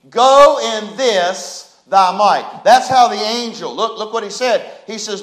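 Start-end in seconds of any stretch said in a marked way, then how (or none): 0.1-2.6 same phrase slow and louder; louder proclaim. Shown as a demonstration.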